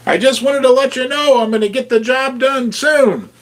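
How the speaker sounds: high, cute toy-bear voice; stuffed bear voice. Acted. Bear toy talks to viewers, high cute bear voice. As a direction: squeak it out like a plush bear. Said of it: "it's me, the stuffed bear".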